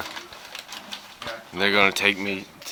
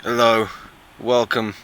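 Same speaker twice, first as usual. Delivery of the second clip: fake British accent. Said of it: "that fake British accent the whole time".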